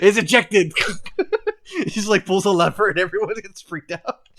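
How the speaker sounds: laughing. Real, not acted. Host cracks up at trial.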